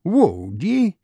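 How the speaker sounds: Irish doctor's indignant cry; Irish accent cry. A narrator's reading. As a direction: challenge in a broad Irish voice. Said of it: "cried in his own unmistakable accents".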